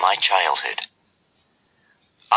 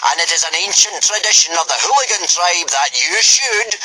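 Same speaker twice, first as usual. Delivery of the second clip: booming Viking giant; 10 semitones higher than usual. Acted. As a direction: lecture the recruits at full voice. Gobber's long speech.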